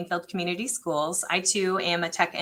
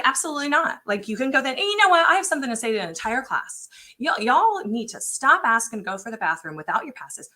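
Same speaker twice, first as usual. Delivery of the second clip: mock yelling at class; 5 semitones higher than usual. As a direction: yell it at the whole class, fed up. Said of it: "I'm yelling at middle schoolers".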